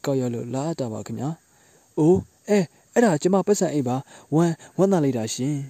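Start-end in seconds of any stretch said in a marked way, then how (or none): 2.0-5.6 delighted surprise. Acted. Woman finds her lost purse.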